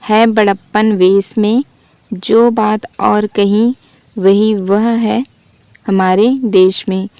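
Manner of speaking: slow, measured verse reading; a slow, grave reading of the verse; poem recital. Shown as a demonstration. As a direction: read each line of verse slowly, with weight. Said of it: "एक और उदाहरण देख लेते हैं".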